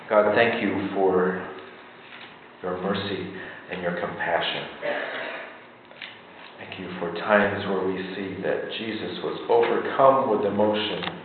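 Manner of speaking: soft, low prayer voice; quiet prayer. Real, not acted. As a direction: pray gently for the congregation. Leads a closing prayer.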